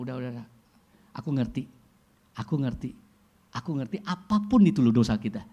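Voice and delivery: calm someone who is sorry; tender reassurance. Retold or imitated. God comforting the sinner.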